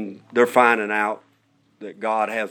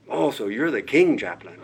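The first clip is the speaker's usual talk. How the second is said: laughing; 3 semitones higher than usual. Real, not acted. Amused retelling of her question.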